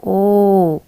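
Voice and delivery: loud, clear ओ for the class; model sound ओ. Shown as a demonstration. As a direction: say ओ for the class to copy. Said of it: "उसका उच्चारण होता है". (ज़ोर से "ओ" बोलकर दिखाना)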